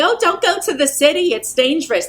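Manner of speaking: high fretful warning voice; imitating a nervous relative; mock worried relative. Mocking Long Island relatives' warning.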